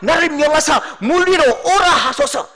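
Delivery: high, loud, bursting request; eager shouting plea. Acted. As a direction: beg Jesus to let you come, carried away. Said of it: "이런 말을 해도 되는지 안 되는지도 모르고".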